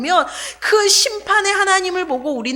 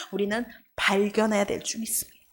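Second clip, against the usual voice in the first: unvoiced, fading to a breath at the end; whisper; 7 semitones lower, 9 dB quieter than usual. Real, not acted. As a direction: whisper the climax of grace. Sermon climax drops to hush. (속삭이듯 간절하게)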